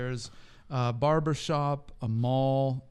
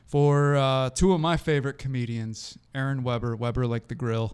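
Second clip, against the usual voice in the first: booming circus ringmaster announcement; 5 dB louder than usual. Acted. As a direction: announce them like a big top show. Host's big circus-style introduction.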